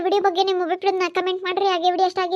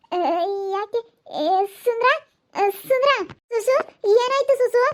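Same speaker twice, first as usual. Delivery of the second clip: surprised neighbour woman; 3 semitones higher than usual. Acted. Second character finds them fallen.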